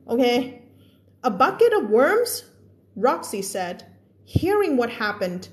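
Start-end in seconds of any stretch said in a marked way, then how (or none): 1.3-2.3 slow, rising, disbelieving read; acted surprised question. Teacher voicing a character's surprised question, slow and rising. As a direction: read it as if you can't believe it. Reading dialogue aloud in class.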